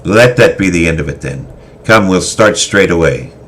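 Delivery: a callous veteran scolding his tardy lord; stern old swordmaster. Acted. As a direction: bark it like a hardened warrior scolding.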